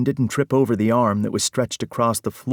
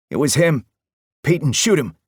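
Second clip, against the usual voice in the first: higher, louder yell, pointing the blame; panicked yell; 6 semitones higher, 4 dB louder than usual. Acted. The twin yells at Peyton to shoot the intruder, panicked. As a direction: shriek for him to shoot. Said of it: "Peyton's twin yelled".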